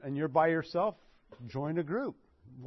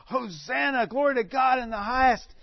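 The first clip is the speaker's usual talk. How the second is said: crowd cheering; 6 semitones higher than usual. Retold or imitated. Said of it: "people were just screaming and ye-, yelling".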